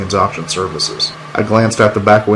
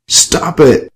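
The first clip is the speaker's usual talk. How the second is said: yelled; 7 semitones higher than usual. Acted. Man trying to rise from the floor, yelling. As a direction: yell for her to quit. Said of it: "I yelled, trying to rise".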